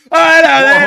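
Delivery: squeaky cartoon character offering a plum; silly creature voice. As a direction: coo the offer like a cartoon critter. Character greeting.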